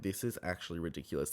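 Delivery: low, soft, fast aside; muttered. Retold or imitated. Host fed up with the episode, low and soft. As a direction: mutter it under your breath. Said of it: "I'm like".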